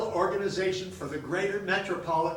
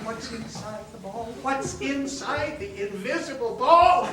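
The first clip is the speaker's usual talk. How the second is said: incredulous; 7 semitones higher, 6 dB louder than usual. Retold or imitated. Victor repeats in disbelief.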